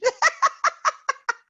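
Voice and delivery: squealing laugh; high burst of laughter. Real, not acted. Big laugh.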